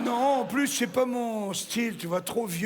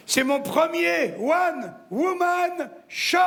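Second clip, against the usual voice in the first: proud announcement; 5 semitones higher, slower than usual. Acted.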